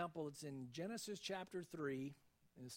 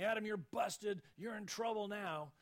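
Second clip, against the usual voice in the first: a hint of a stern cop, a bit louder; God imagined as a scolding officer; arresting officer; 3 semitones higher, 4 dB louder than usual. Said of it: "as an arresting officer saying".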